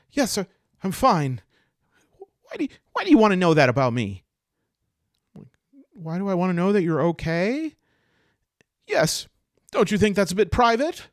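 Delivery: high, loud, touchy retort; touchy, evasive elf. Acted. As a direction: push back at a nosy stranger. Touchy elf resents his questions.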